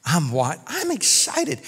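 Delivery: hushed, squealed retelling of excitement; mock excitement. Customer watching through the shop door, mock giddy excitement. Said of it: "I was so excited".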